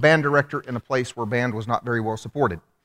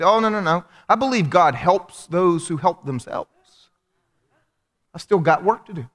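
a touch higher, brushing it off; mildly voiced colleague; 3 semitones higher than usual. Colleague turns down an offer of prayer, lightly mimicked. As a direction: lightly imitate a self-reliant churchgoer. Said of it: "She said".

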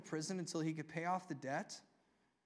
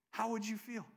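chuckling as you repeat the question; amused, laughing question; 3 dB quieter than usual. Shown as a demonstration. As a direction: ask it again through a laugh.

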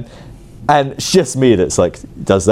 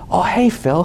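higher, breezy friendly hello; pastor's greeting; 8 semitones higher, slower than usual. Retold or imitated. The pastor greeting Phil after the service, higher and breezy. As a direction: toss off a casual friendly greeting.

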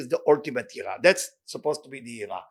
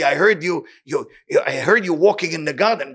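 Adam's frightened reply; 8 dB louder than usual. Acted. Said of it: "Adam say".

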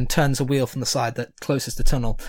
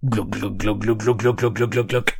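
gurgling noise; 4 semitones lower than usual. Acted. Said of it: "an even more horrible sound".

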